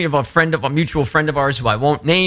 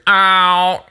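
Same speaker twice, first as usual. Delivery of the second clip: imitating singer's ow; 4 semitones higher, 5 dB louder than usual. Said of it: "imitate that lead singer's".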